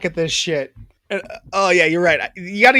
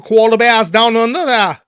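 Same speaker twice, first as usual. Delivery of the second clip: Australian accent drifting Kiwi; broad Aussie, nearly New Zealand; 3 semitones higher, 3 dB louder than usual. Shown as a demonstration. Speaker talks koalas, Australian accent veering Kiwi. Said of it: "sound more New Zealandish".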